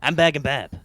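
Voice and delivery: slightly reedy salesman voice; tongue against the teeth, a little reedy; Bargain Bob voice. Shown as a demonstration. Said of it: "I figured out how to do Bargain Bob's vo-, little slightly reedy voice".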